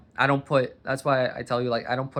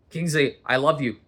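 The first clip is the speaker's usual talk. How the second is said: "Kingsley, I love you" barked louder, "love" hit hard; harsh "I love you"; 6 dB louder than usual. Shown as a demonstration. Showing the dog Kingsley how tone beats words with a harsh scold. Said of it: "they can read tone".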